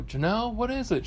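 mock husband answering. Husband answers wife from the living room, mock high reply. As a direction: imitate answering a call from another room.

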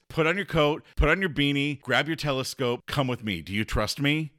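rally him to come along; eager invitation. Retold or imitated. Patrick urging Aubrey to come out, eager.

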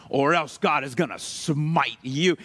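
low, slow threat of smiting; slow, ominous mock threat. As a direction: draw it out low like a warning of doom. Mock threat of divine punishment.

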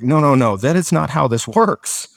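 a mock-stern, emphatic scolding, drawn out at the end; stern German instructor. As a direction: imitate a strict teacher putting a student straight. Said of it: "he's this stern German guy".

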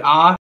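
ah said as a long open vowel; open a sound. Shown as a demonstration. Friend demonstrates the vowel in car, open ah. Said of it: "you don't say the A, like".

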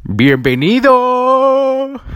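high, slow, loud welcome; drawn-out welcome. Acted. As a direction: stretch the greeting out big. Greets the listener.

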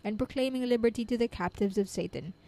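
measured, fluent devotional reading; reading aloud. Real, not acted. Reader sharing scripture commentary with listeners, measured reading aloud. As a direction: read it out evenly with deliberate phrasing.

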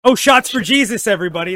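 excited toast. Real, not acted. Toast cheer.

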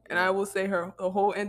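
British accent impression of a singer; imitated UK rapper. Showing friends the practised accent, UK rapper imitation. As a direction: do her UK accent. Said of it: "You sound just like her".

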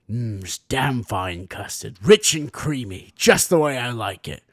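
savoring custard. Retold or imitated. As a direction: linger on each word like a gourmand tasting. Character savoring custard, acted out.

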